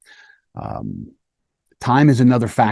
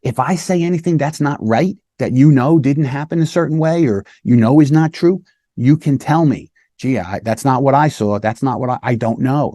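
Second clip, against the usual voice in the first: put-on reassuring child; 3 semitones higher than usual. Shown as a demonstration. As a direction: invite the child to correct you. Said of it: "So you tell them".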